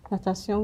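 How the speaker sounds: natation said the French way, na-ta-sjon; French pronunciation of natation. Shown as a demonstration. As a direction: say natation with French sounds, nasal ending. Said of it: "which means swimming".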